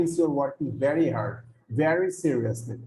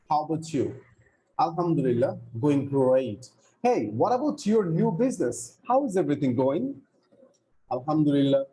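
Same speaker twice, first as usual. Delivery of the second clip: dialogue read aloud. Shown as a demonstration. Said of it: "So let me read that dialogue".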